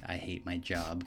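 soft, deadpan drone; very monotone. Retold or imitated. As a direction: imitate someone drained by their job. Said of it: "very monotone".

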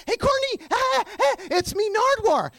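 high-pitched calling out; re-enacted eager, stammered holler; yelling up. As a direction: yell for a friend's attention across a crowd. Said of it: "I yell up to Courtney".

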